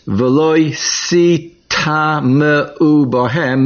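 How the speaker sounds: very slow, careful reading of the Hebrew; slow quoted verse. Shown as a demonstration. Teacher quotes the verse words to students, slow and careful. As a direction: draw out each word of the verse. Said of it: "The words".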